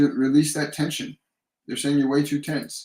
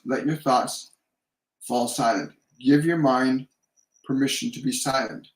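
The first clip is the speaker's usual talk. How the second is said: measured meditation guidance with long pauses; guided meditation. Real, not acted. Psychic leading a viewer to breathe and relax, guided meditation. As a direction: guide them into relaxing, leaving space for each breath.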